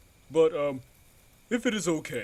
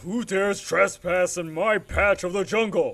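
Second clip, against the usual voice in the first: intimidating; 3 dB louder than usual. Acted. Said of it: "I wanted to be a little intimidating".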